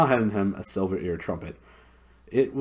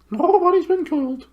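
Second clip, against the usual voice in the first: very high, loud hooted reply; high, loud owl hoot; 9 dB louder than usual. Acted. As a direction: hoot it at the deaf dwarf. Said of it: "hooted the owl".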